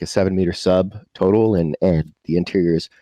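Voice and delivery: ordinary talk, nothing marked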